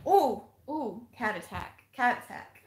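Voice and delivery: sing-song cat attack; playful cat cheer. Real, not acted. Watching her cat chase its tail, playful.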